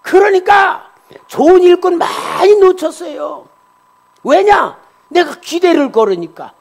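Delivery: high, loud pulpit exclamations; full-force preaching. Real, not acted. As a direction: drive the lesson home at a shout.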